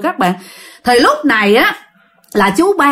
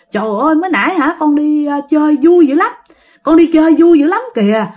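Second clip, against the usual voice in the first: higher, lightly acted delight; excited retelling; 4 semitones higher than usual. Revived uncle tells the family about his outing, mildly excited. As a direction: gush a little about the outing.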